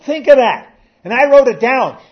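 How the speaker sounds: preacher repeating the quote he wrote down; preaching at full force. Acted. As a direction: hammer each phrase home. Preacher driving home a quote.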